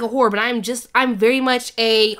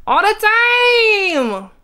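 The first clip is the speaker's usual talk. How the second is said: high, loud burst then drop; emphatic pick; 10 semitones higher, 4 dB louder than usual. Pretend. Answering the quiz boldly, excited. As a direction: call out the answer.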